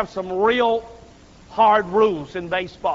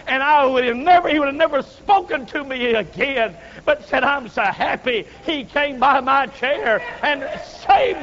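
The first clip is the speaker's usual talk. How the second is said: joyful shouting; 4 semitones higher than usual. Retold or imitated. Old woman shouting her joy to the preacher. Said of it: "and you're shouting?".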